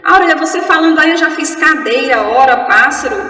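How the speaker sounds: loud, rushed interruption in a student's voice; mock hurried student. Student tells teacher the words are already done, mock hurried. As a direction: imitate a student racing ahead, pushing the volume. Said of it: "para que a pressa?".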